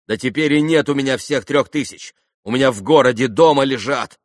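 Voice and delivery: loud, high, desperate pleading; anxious babbling. A narrator's reading. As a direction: plead as your nerve starts to go. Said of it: "лепетал Митя, труся и падая духом". (испуганный торопливый лепет)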